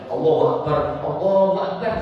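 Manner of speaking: fast Allahu Akbar run together; hurried incorrect takbir; wrong takbir. Shown as a demonstration. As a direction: rush through the takbir.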